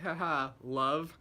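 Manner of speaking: a light, drawn-out Cockney greeting; Cockney accent. Retold or imitated. Assassin greeting her target, in mock Cockney accent. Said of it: "like, Cockney accent".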